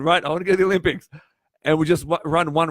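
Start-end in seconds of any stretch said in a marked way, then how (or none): 0.0-1.1 eager and hasty. Retold or imitated. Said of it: "Imagine you and I just going".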